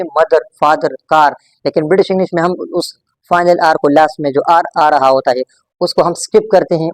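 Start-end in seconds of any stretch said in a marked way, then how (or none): 0.0-1.4 मदर, फादर, कार with R sounded; American final R. Shown as a demonstration. Teacher contrasting American English for students, pronounced R. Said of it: "American English में हम बोलते हैं".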